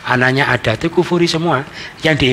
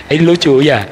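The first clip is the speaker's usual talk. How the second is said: chuckling, a little louder; amused chuckle; 2 semitones higher, 4 dB louder than usual. Real, not acted. Preacher finds crying in a luxury car funny, chuckling. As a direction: laugh lightly into the words.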